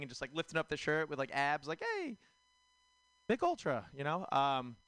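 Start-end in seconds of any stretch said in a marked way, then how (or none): 1.8-3.9 high, hammed-up hype shout; beer ad bro. Comic mocking a beer ad with a hyped bro voice. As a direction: sell it like a macho beer ad.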